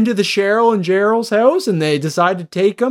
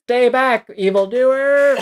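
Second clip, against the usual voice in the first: mock hero robot; 6 semitones higher, slower than usual. Robot defends itself.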